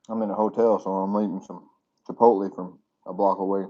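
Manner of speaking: talking with mouth full; words round a bite of food. Real, not acted. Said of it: "I'm talking with my mouth full".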